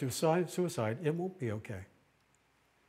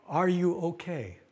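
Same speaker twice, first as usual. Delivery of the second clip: caring question; 5 semitones higher, 3 dB louder, slower than usual. Shown as a demonstration. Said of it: "Sounds like a caring question".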